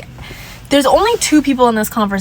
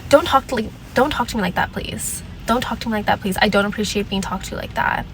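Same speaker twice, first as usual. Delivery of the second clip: softer, calm polite request; 5 dB quieter than usual. Retold or imitated. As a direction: keep it quiet and composed. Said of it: "I was like".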